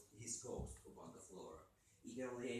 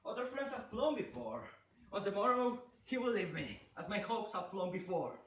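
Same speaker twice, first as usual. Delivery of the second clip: high and loud, anguished; declaimed line; 10 semitones higher, 9 dB louder than usual. Acted. Mourner lamenting to the raven, high and loud. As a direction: cry out the lament. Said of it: "scarcely more than muttered".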